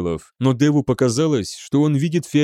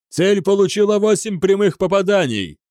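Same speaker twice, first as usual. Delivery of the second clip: high, excited gunner's cry; shouted report; 7 semitones higher than usual. A narrator's reading. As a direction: call out the hits over the din. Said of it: "крикнул главный комендор". (громко выкрикнуть доклад)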